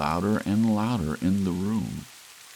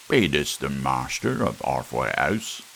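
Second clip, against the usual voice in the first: mock old-fashioned voice; 5 dB louder than usual. Visitor at door, put-on voice.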